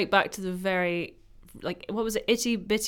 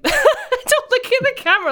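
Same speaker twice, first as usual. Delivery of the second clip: higher, louder mock stern order; mock child-minder; 7 dB louder than usual. Child-minder scolding the baby, hammed up with laughter. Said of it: "Mum tells me, like".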